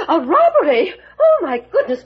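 alarmed gasp. Acted. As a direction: clutch your pearls in alarm. Mother gasps at news of robbery.

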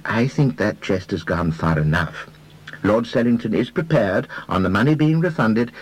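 detective choosing words carefully. Acted. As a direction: pick each word with care. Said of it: "said Mister Reader carefully".

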